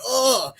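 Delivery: high-pitched mock groan; comic cringing groan; dismayed groan. Woman dreading ex's reading, retold as a mock groan.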